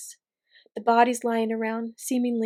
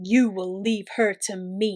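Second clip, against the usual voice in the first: deep, liquid, bubbling croak, low; 3 semitones lower than usual. Reading a fantasy story aloud, voicing Caragor in his deep, liquid voice. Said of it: "his voice deep and somehow liquid".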